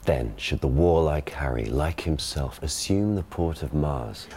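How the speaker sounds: received pronunciation stage reading; modern RP Shakespeare. Shown as a demonstration. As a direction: classic RP verse delivery. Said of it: "he gives the modern pronunciation".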